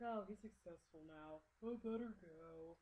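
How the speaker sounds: resigned cartoon quote, dragging out at the end; Jiminy Cricket. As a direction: imitate a cricket bowing out slowly. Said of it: "He's like".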